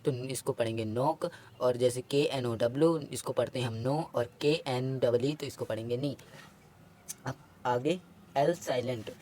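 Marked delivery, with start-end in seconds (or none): 0.8-1.3 नॉक starting on N, no K before it; silent K. Shown as a demonstration. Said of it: "आया के silent होता है". 3.8-4.0 नो starting on N, no K sound; silent K. Shown as a demonstration. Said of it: "आया के silent होता है". 6.0-6.2 नी starting on N, no K sound; silent K. Shown as a demonstration. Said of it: "आया के silent होता है".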